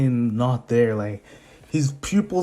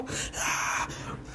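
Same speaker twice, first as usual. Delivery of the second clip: breathy, voiceless crowd roar; hushed mock cheering; imitated crowd cheer; 11 dB quieter than usual. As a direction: fake a distant crowd under your breath. Crowd noise after the introduction.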